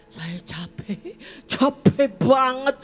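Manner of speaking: from slow tired to loud; building exhaustion. Real, not acted. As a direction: let tiredness swell into a loud complaint.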